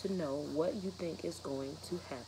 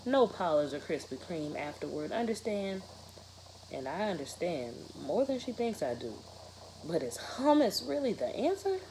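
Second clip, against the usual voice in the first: expressive read-aloud of a novel, rhythmic and lively; story narration. A narrator's reading. Teacher reading a novel aloud to her students, expressive narration. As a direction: read the chapter to the class with energy.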